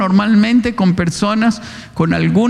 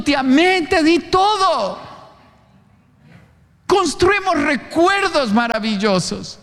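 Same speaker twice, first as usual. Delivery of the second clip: higher-pitched, fervent sermon delivery; impassioned preaching; 5 semitones higher than usual. Acted. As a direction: preach it with rising fervour, drawing out key words. Preaches at emotional peak.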